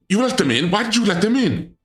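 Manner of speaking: high, shrill-edged why-did-you; demanding answers in high alarm; indignant squeal at the intruders; outraged disbelief. Real, not acted. Outraged at intruders in her room.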